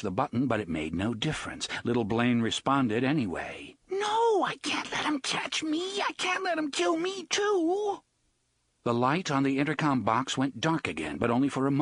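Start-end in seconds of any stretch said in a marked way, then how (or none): 3.9-8.0 put-on very high, frightened child's cry; panicked child. A narrator's reading. Little Blaine refusing Eddie, high panicked child. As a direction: plead like a hunted little kid.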